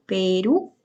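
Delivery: "Perú" rising onto RÚ; teacher's demo, "Perú" weighted on RÚ; stress on RÚ. Shown as a demonstration. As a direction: lift the last syllable of "Perú": pe-RÚ. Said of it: "la última sílaba lleva tilde y tiene el acento".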